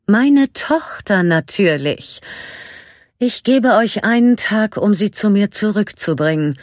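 high, loud, cold ultimatum; threatening evil queen. A narrator's reading. (drohende böse Königin)

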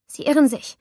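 high, loud trembling protest; trying to sound calm but failing; shaky voice. Acted. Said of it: "meine Stimme zitterte".

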